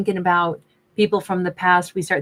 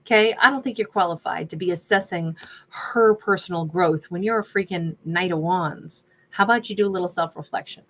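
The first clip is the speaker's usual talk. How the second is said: sassy. Real, not acted. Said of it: "my inside voice just came outside".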